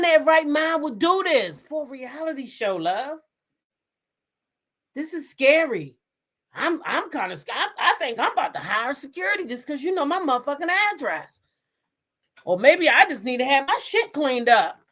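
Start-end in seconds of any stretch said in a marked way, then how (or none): 4.9-11.4 laughing. Real, not acted. Joking about hiring security.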